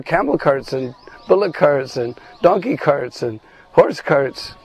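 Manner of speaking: mocking, high-pitched scorn at the weak cowherd boys; sarcastic taunt. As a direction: sneer at them as if they're weaklings. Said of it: "she says very sarcastically".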